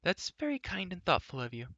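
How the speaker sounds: high, sweet thanks; lightly voiced admiring girl. A narrator's reading. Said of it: "with an admiring glance".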